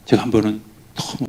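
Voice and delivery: usual speaking voice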